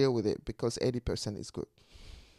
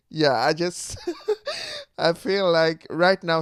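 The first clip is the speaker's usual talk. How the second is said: real laugh breaking in mid-sentence, louder; 4 semitones higher, 7 dB louder than usual. Real, not acted. Vlogger about to explain the laughing, laughing. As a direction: start talking, crack up, carry on. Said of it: "explain why I'm laughing".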